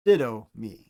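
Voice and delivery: didomi with a clear d; Greek word. Shown as a demonstration. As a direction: say didomi crisply for the class. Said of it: "Delta makes a d sound".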